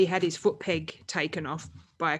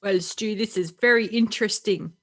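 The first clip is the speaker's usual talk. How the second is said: slightly higher, half-hearted put-on accent; Manuel; 3 semitones higher, 4 dB louder than usual. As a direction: attempt a colleague's accent, badly. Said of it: "I'll pretend I'm Manuel".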